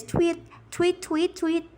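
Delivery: light tweets going up in pitch; imitated bird. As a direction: chirp the words like a little bird. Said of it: "my bird says".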